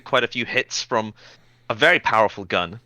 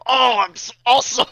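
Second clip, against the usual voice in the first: high, loud burst of glee at the roll; excited cheer; 13 semitones higher, 6 dB louder than usual. Real, not acted. Player cheering her own dice roll, real excited whoop. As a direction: crow with real delight. Player rolls well on check.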